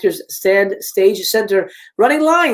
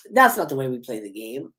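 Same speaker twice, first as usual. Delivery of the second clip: low, controlled phone taunt; Ghostface; 6 semitones lower, 4 dB quieter than usual. Acted. Killer corrects Gail over the phone, low and menacing. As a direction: pitch it down, quietly menacing. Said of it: "getting a call from Ghostface".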